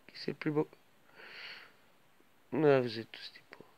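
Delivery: soft whisper to the pets; tender whisper to her animals. Real, not acted.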